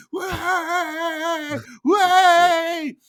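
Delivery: very high, loud cheer; pirates cheering. Acted. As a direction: whoop like a crowd of pirates. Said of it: "all the pirates start cheering".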